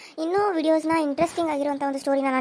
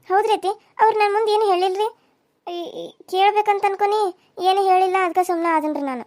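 put-on a young wife fretting over the in-laws, pitched up; young daughter-in-law; 2 semitones higher, 3 dB louder than usual. (ಚಿಂತೆಯಲ್ಲಿರುವ ಸೊಸೆಯ ಎತ್ತರದ ಧ್ವನಿ)

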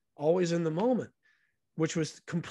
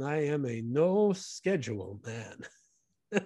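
put-on slow, Korean-accented "I am a no schedule man"; Chan's Korean accent; much slower than usual. Chan declaring his easy life in a slow Korean-accented voice. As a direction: savour each word like a contented old man. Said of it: "And he says".

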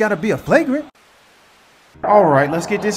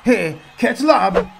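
slow called-out shout; much slower than usual. Acted. Calling for a lob pass.

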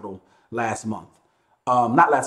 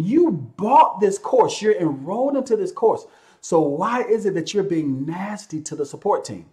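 indignant rebuke; 4 semitones higher than usual. Acted. CEO silently scolding nasty course buyers, indignant. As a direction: stress it like an exasperated telling-off.

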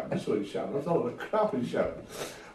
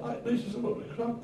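scornful boss; 13 semitones higher than usual. Retold or imitated. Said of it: "He said".

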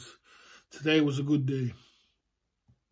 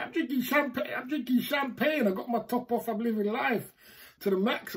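higher-pitched, giddy boast about champagne; tipsy bragging; 6 semitones higher than usual. Real, not acted.

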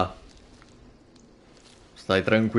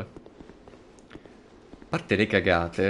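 drawn-out slow; 5 semitones lower, 4 dB quieter, much slower than usual. Shown as a demonstration. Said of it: "repeated slowly".

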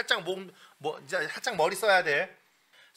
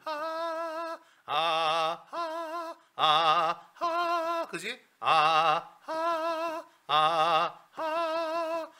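octave jumps demo; 8 semitones higher, much slower than usual. Shown as a demonstration. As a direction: alternate falsetto and chest an octave apart. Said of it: "그럼 가성이 여기겠지". (가성과 진성을 한 옥타브씩 번갈아)

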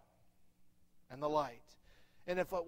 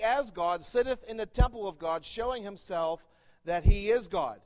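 rising into a louder, forceful reading; preaching scripture aloud; 4 dB louder than usual. Acted. Preacher reads scripture to church, building to a louder proclamation.

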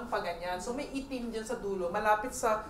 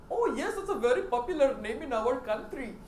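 imitated Indian accent. Indian shop owner answers about a name, imitated Indian accent. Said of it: "bukod nga pala sa mga Indian accent".

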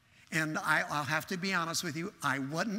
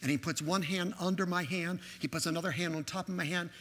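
normal talking voice

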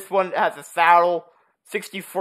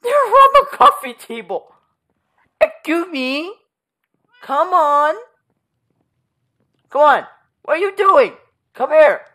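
much higher, sing-song voice for the cat; pet talk; 9 semitones higher, 5 dB louder than usual. Real, not acted. Owner finds cat on the coffee table, high coaxing pet voice.

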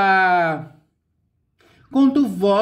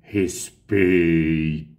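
a slow, drawn-out, lofty "Respeito"; grand actress voice; 13 semitones lower, much slower than usual. Retold or imitated. Imitating a veteran actress saying respect with lofty slowness. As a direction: stretch it out like a proud old diva. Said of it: "Agora ela fala assim".

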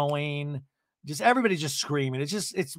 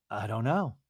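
mock calm; 2 semitones lower than usual. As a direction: imitate someone answering very calmly. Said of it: "Shannon very calmly goes".

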